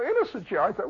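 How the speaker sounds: ordinary delivery, nothing marked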